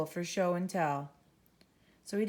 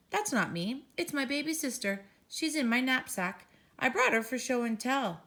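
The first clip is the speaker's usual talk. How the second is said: put-on child; 5 semitones higher than usual. Child Ben answers teacher.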